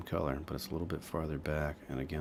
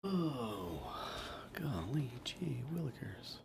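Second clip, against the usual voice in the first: put-on wholesome 1950s kid; 8 semitones higher, slower than usual. Painter jokes in a kid voice.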